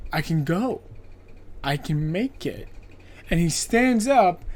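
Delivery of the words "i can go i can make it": soft, low, breathless hope; hushed desperate hope. Retold or imitated. Victim escaping the chair, hushed desperate hope. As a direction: whisper to yourself that you can escape. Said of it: "And he's like".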